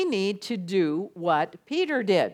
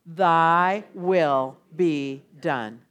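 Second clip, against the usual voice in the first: very slow, lower, solemn; slow solemn prayer; 4 semitones lower, much slower than usual. Shown as a demonstration. Leading the congregation in prayer, very slow and solemn. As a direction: draw out each word reverently. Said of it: "let's say it again out loud".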